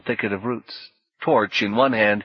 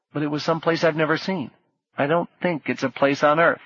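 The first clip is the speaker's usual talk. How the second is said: high, awed; marvelling, building; awed excitement; 6 semitones higher than usual. Acted. Orlando describing vision.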